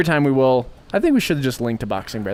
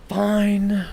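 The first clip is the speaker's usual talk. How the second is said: sulky high "fine"; 8 semitones higher than usual. Retold or imitated. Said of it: "I was like".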